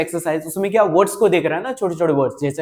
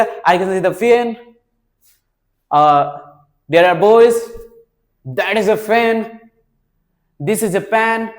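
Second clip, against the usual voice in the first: slow example sentences; much slower than usual. Shown as a demonstration. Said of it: "जैसे".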